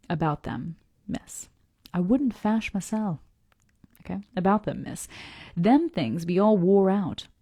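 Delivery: put-on unhurried, folksy Southern accent; old sailor's dialect in an improvised Southern accent. Old sailor answers the young lady, Southern accent. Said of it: "saying it with a southern accent".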